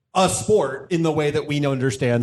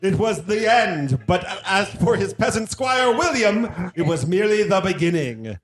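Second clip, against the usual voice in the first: fighting game announcer; 2 semitones higher than usual. Pretend. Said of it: "You, you told me to do this".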